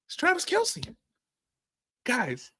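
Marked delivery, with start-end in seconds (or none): 0.1-1.0 mock reveal. High reveal of the answer.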